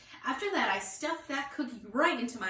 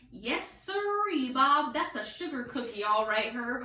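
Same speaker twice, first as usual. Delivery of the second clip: emphatic hinting; 3 dB louder than usual. Acted. Girl hints loudly to friend about his cookie, emphatic. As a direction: lean on it, hint hard.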